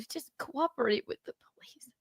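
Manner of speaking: half-whispered plea; hushed aside. Real, not acted. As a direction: drop into a soft, airy whisper. Aside urging cooperation with police.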